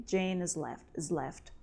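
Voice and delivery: "has" said like "is", with no H. Shown as a demonstration. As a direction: drop the H, "Jane 'as left" sounding like "is". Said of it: "It's like is left".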